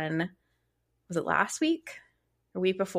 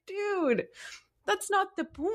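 much higher, incredulous objection; mock-scold him, pitched way up; exasperated retort; 12 semitones higher than usual. Wife retelling her own objection.

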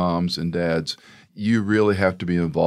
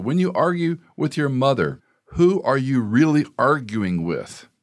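stern father; 7 semitones higher than usual. Retold or imitated. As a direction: press the son with a probing question. Father confronts arguing son.

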